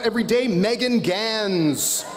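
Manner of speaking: hyped ring announcer, drawing out names; pro wrestler announcer voice. Acted. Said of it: "I'm loving my pro wrestler announcer voice".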